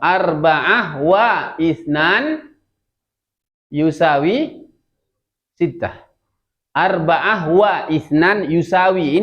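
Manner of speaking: slow Arabic demonstration, pausing between parts; model reading. Shown as a demonstration. Teacher reading an addition for the class, slow model reading. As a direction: draw out each word as a teacher would. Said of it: "Bacanya apa?".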